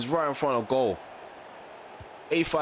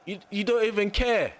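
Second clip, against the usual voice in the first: high exasperated complaint; angry shouting at ref; 11 semitones higher than usual. Real, not acted. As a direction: shout your outrage at the referee. Ranting at the game referee.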